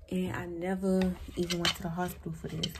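whispered confession about skipping hospital; whispered aside. Real, not acted. Confiding aside.

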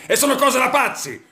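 high laughing shout; laughing outburst. Acted. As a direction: exclaim it, half laughing. Outraged comic rant.

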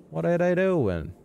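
high, slow sing-out question; high-pitched wondering. Pretend. Gamer watches odd figures, high-pitched wondering. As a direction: stretch it out high in puzzlement.

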